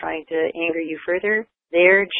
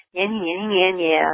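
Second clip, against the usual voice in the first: mock teasing; slower than usual. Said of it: "teasing her the way, the way school kids do".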